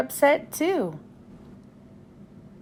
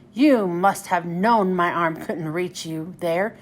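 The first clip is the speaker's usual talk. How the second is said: complaining; 5 semitones lower than usual. Acted. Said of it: "complained Cranky".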